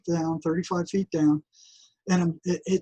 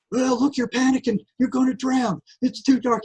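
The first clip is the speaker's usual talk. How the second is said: taunting inner voice; 7 semitones higher than usual. Retold or imitated. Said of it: "here it comes again".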